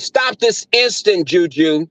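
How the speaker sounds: a touch of inner white voice; lightly prim dog owner; proper scolding voice. Retold or imitated. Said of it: "I said".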